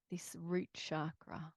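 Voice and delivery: soft whispered guidance. Acted. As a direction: whisper it to the group.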